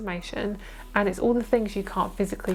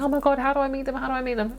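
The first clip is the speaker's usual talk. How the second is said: eager excitement; 5 semitones higher, much faster than usual. Retold or imitated. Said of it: "I'm hearing".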